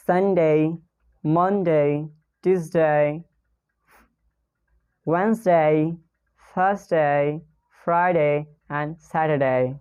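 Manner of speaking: days of the week in a clear native English accent; careful native days. Shown as a demonstration. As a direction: read each day cleanly and carefully. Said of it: "I'm going to pronounce it".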